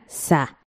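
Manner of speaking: Sa said alone, short and soft; isolated syllable. Shown as a demonstration. Teacher isolating the syllable Sa for students, soft and short. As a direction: pick out the syllable Sa on its own. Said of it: "en la última sílaba lleva Z".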